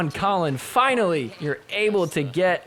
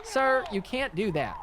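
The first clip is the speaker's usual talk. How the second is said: high, softer officious ref voice; imitated referee; 7 semitones higher, 5 dB quieter than usual. Host mimicking ref calling player back, mock officious. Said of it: "then the ref's like".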